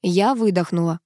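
usual speaking voice

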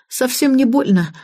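high, strained little reassurance; groaning with effort. A narrator's reading. Woman gets up after being knocked back, mildly groaning. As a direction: insist you are fine while getting up. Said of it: "прокряхтела я".

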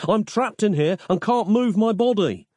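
high-pitched plea, little added volume; yelling. A narrator's reading. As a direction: call out urgently for help. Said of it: "yelled Nick".

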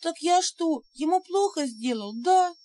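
high tearful spirit voice; on the verge of tears; pitiful sniffle. A narrator's reading. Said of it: "жалобно всхлипнул". (жалобно, всхлипывая)

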